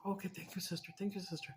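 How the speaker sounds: softly thanking sister; quiet thanks. Retold or imitated. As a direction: murmur thanks gently. Brother thanking her softly.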